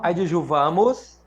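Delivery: slow, drawn-out conjugation with a lift at the end; patient teacher modelling the form; slow model answer. Shown as a demonstration. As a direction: stretch it out so students can repeat. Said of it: "Nós".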